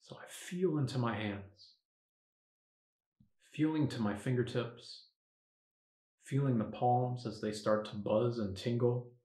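softened meditation voice with long pauses; guided meditation. Acted. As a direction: talk yourself gently into focus. Guides meditation by own example.

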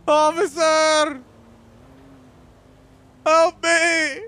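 mock desperate cries to police; calling for help. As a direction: yell for the cops.

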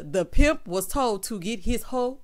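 slow, lightly put-on Zamunda accent; mock Zamunda accent. Repeating a husband's funny line to viewers, slow mock Zamunda accent. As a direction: draw it out in imitation Zamunda accent. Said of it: "where this accent came from".

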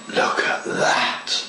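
slow whispered admiration; awed whisper. Real, not acted. Modeller whispering in admiration at his bend. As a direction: hush it, marvelling at the result.

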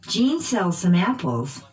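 "Jean" and "apples" stressed by pitch; noun stress. Shown as a demonstration. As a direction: drill model, peaks on "Jean" and "apples". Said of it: "using pitch change".

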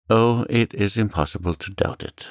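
understated cry; sudden cry. Acted. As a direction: blurt it out with sudden conviction. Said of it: "cried he suddenly".

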